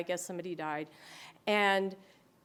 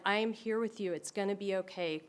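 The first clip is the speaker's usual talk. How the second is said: reassuring; 4 dB quieter than usual. Shown as a demonstration. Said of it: "you can try holding their hand".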